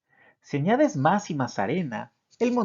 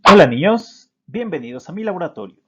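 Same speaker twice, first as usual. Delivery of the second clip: bright squeaky sing-song welcome; 13 dB louder, faster than usual. Acted. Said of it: "los dejo con un experto en la materia, el doctor Miao".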